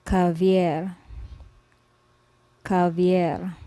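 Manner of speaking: Javier with a gargled j at the start; Spanish name. Shown as a demonstration. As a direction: say Javier as hah-vee-ehr, throaty j. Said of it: "For example".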